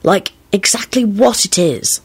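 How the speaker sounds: musing, lightly dreamy tone; pensive, lingering musing. A narrator's reading. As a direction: ponder it as if lost in thought. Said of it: "Lupin replied pensively".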